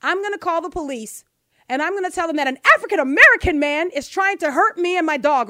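a hammed-up version of her frantic threat to call police; frantic caller. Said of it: "her tone of voice when she says".

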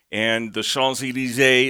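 Champs-Élysées said the French way, shon-zay-lee-ZAY; French vowels on Champs-Élysées; French pronunciation. Real, not acted. Host reading the news shows off his French. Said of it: "Now you're just showing off there".

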